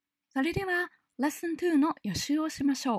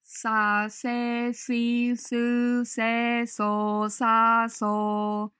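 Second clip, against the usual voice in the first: clipped syllable drill; much slower than usual. Shown as a demonstration. Teacher drilling syllables for breath practice. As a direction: bounce through the syllables one by one. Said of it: "と続けてみてください".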